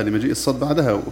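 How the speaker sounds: usual speaking voice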